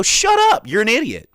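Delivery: high, loud shout of shut up; hammed-up scolding yell; mock shout. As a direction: blast the customer down. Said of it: "I can look over and go".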